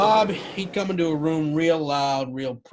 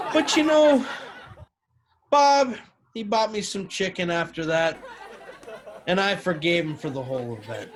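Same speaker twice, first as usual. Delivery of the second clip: laughing; 3 semitones higher, 3 dB louder than usual. Real, not acted. Laughing at his own story.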